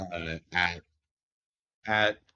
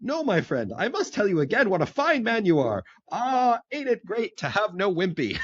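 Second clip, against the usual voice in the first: gushing cobbler; 12 semitones higher than usual. Retold or imitated. Cobbler gushing over new friend.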